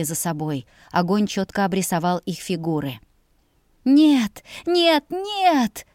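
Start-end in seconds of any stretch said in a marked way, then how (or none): 3.8-5.9 rising desperate screams, higher each time; screaming no. A narrator's reading. Girl screaming no at her tormenting brothers. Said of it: "Мой крик оглушал".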